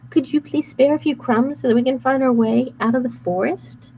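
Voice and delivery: high put-on Gretel voice; overly sweet, playing innocent; fake sweet girl. Wolf disguised as Gretel luring cookie, sweet.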